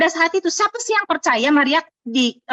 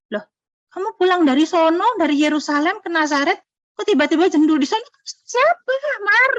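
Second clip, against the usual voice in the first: rising in pitch to a high startled 'Siapa, Mar?'; Yusuf's shocked question; 4 semitones higher than usual. Retold or imitated. Yusuf confronting Maria about her pregnancy, startled and high. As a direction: play the stunned fiancé asking who did it. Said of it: "Kan pasti Yusuf tanya".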